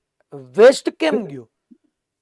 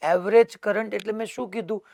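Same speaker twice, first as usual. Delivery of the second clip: ordinary talk, nothing marked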